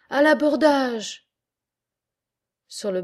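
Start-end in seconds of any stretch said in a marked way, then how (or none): 0.1-1.3 a loud, slow, higher war cry; battle cry. Acted. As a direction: roar it as the whole crew charges.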